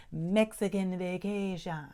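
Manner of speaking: lightly put-on Jamaican accent; hint of a mock Jamaican accent. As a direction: slip playfully into a Jamaican lilt. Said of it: "I did that with a Jamaican accent".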